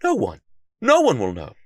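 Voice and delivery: high, sly reassurance to himself; sneaky self-talk. A narrator's reading. Detective convincing himself to sneak icing, sly. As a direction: talk yourself into it slyly. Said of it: "Sylvester asked himself".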